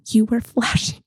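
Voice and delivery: breaking into laughter mid-sentence; laughing. Real, not acted. Friend retelling husband's flashing remark, laughing. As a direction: try to get the quote out while laughing. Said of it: "Sorry, I'm laughing".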